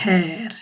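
হেয়ার with a long open Swedish vowel; Swedish pronunciation. Shown as a demonstration. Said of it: "তো তখন এইভাবে উচ্চারণ করে". (হেয়ার টেনে সুইডিশ উচ্চারণে)

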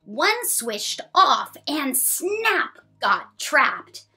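lilting storybook read; reading to children. Acted. Mom reading a ninja book to her son.

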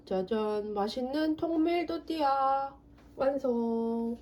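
slow, drawn-out proud reveal. Acted. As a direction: present it like a finale. Unveiling the finished tortilla. (짜잔 하며 뿌듯하게)

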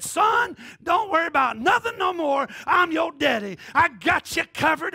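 lightly voiced generous dad; mock benefactor father. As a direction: promise like a rich father. Voicing a rich benefactor father.

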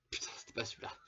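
whispered curse under the breath; frustrated whisper. Real, not acted. Player whispering in frustration after picking the wrong one, whispered. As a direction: hiss it to yourself, annoyed.

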